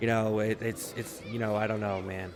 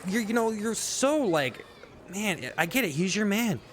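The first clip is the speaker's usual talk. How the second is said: a wife fawning over her tough-guy husband, mockingly cooing; mocking a doting wife; slower than usual. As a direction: gush over her man in a teasing singsong. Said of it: "It's just like".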